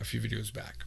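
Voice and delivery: hushed, whispered delivery.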